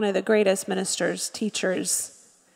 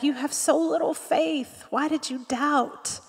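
gentle reproach; 3 semitones higher, 7 dB quieter than usual. Retold or imitated. Jesus gently chiding Peter.

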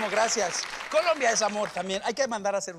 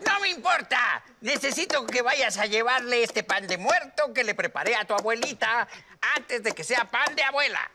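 witch voice. Acted. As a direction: scold like a witchy mom. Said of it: "tiene voz de bruja la mamá".

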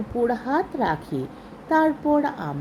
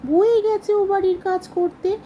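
mocking sneer; 8 semitones higher, 3 dB louder than usual. A narrator's reading. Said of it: "ভেংচি কেটে মদন আমার কথার উত্তর দেয়".

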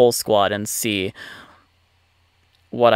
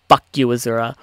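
ordinary talk, nothing marked

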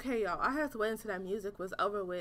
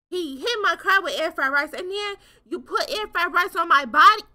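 mock outrage; 5 semitones higher, 9 dB louder than usual. Real, not acted. Outrage at the killer.

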